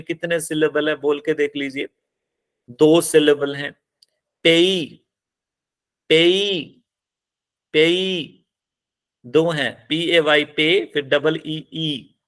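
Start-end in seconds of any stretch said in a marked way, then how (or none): 4.5-8.5 पेई with a long, stressed final ई; stress on last syllable. Shown as a demonstration. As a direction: lean on the ई in पेई. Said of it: "last पे".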